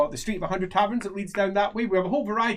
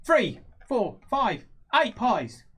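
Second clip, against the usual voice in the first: high, drawn-out haggling voice; name a price as a small pie seller; halfling merchant; 4 semitones higher, much slower than usual. Acted. Halfling sizing up a customer, high sales pitch. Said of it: "halfling mer-, uh, merchant".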